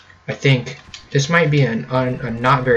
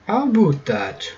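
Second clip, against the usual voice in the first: higher-pitched mock Irish lilt; playful Irish accent, higher voice; 6 semitones higher than usual. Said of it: "giving a, a good old Irish accent".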